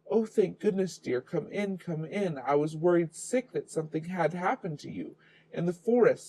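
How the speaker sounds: grandma relieved at the knock, lightly voiced old woman. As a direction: fuss like a worried grandmother. Grandma greets at door.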